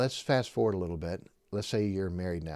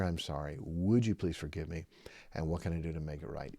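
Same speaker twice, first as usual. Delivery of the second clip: softer, lower, heartfelt "I'm sorry."; sincere apology; 5 semitones lower, 5 dB quieter than usual. Shown as a demonstration. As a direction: ask forgiveness gently and honestly. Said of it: "A sincere".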